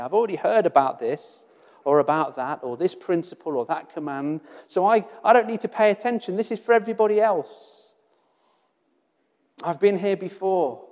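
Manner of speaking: a fast, lightly voiced know-it-all brushing the point off; smug dismissive. Preacher mocks a complacent listener, fast smug brush-off. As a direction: toss it off as if you've heard it all. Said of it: "It's not right for us to say".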